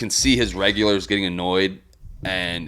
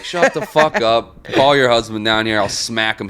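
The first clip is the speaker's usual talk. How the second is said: imitated angry comeback, drawn-out opening; mock angry retort. Bartender yelling back at rowdy regular, mock angry retort.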